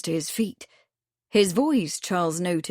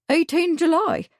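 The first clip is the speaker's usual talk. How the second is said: much higher, startled repeat; affronted echo; 10 semitones higher than usual. A narrator's reading. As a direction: echo it, scandalised he knew.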